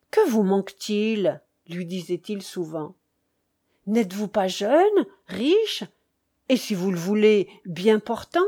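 mildly animated questioning, pressing his friend; lively cheerful count. Acted. (comte enjoué, questions pressantes)

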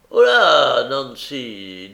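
calling out sharply. Acted. Brigand hails Nancy as she heads for the door, calling out. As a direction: holler after someone leaving.

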